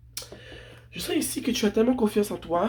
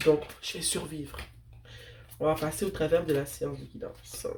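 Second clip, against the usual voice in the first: blocked nose; 2 semitones lower than usual. Real, not acted. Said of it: "ma voix est, est un peu bizarre parce que j'ai le nez bouché".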